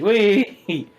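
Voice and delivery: high-pitched happy squeal; gleeful child. Acted. Hunter handed over to Spellblaze, gleeful squeal. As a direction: whoop like a kid handed around. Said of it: "He's like".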